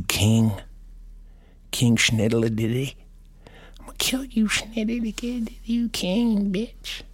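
hammed-up menacing panda; panda bear voice. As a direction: growl threats as a cartoon panda. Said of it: "that's my impression of a panda bear".

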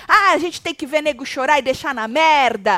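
mild mock yell; half-shouted quote of someone fed up; imitating shouting. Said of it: "ele começou a gritar".

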